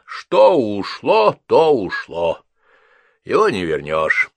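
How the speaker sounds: a hint of resigned old wisdom; wise old woman. A narrator's reading.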